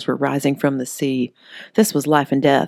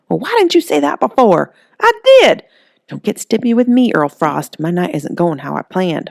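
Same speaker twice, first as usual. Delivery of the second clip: much higher and louder at first, then settling; scolding Holly; 4 semitones higher, 5 dB louder than usual. Acted. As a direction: snap at him in annoyance.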